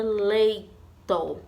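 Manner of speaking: leito split, LEI held before a short TO; stress on LEI. Shown as a demonstration. Teacher introducing the example word, stressed LEI in leito. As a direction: lengthen the first syllable of leito. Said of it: "sílaba que a tia mais falou".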